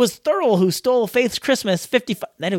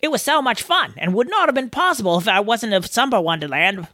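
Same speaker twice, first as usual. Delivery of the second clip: put-on not-quite Australian accent; attempted Australian accent. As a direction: read it with an imperfect Australian accent. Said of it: "I can barely do an Australian accent".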